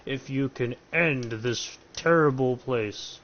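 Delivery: booming villain host, lightly voiced; over-enthusiastic Count Dracula. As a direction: grandly menace the player as the count. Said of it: "the over-enthusiastic Count Dracula".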